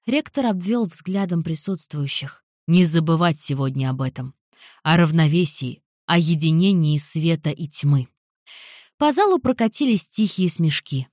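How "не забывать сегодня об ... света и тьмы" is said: formal speech. Acted. Rector's speech continues.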